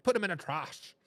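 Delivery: put-on heavy New Jersey accent, broad vowel in "trash"; imitated New Jersey accent. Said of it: "in a heavy New Jersey accent".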